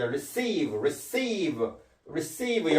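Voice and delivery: "receive" repeated, each ending on a lip-made V; labial V demonstration. Shown as a demonstration. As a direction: model the final V in "receive". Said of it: "V 발음은 순경음이죠". ("receive" 끝의 V를 순경음으로 발음)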